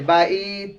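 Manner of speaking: বাইত held, then a puff on t; aspirated ending. Shown as a demonstration. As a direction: release a little air after বাইত. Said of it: "একটা বাতাস বের হবে".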